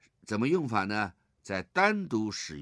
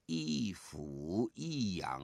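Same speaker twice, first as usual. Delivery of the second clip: slow 一俯一仰 then stop; slow 一俯一仰, then hold a beat; pause after it; 5 dB quieter, much slower than usual. Shown as a demonstration. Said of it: "后面要停一下". (读完“一俯一仰”停一下)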